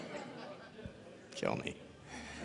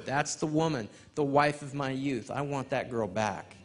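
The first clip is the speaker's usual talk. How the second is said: earnest prayer. Retold or imitated. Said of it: "a real prayer of mine".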